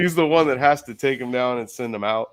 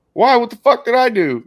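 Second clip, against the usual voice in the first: retold protest; 11 semitones higher, 9 dB louder than usual. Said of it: "And I go".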